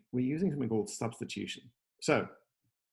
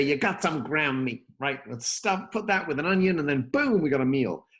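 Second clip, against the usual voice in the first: improvised grandmother voice; 4 semitones higher, 3 dB louder than usual. Retold or imitated. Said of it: "my grandmother doesn't speak like that".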